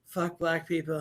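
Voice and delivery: lightly voiced parody president; Donald Trump. Parody president answering an interview question, in a put-on voice. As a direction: answer low-key as a mock president. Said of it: "Well, so Donald".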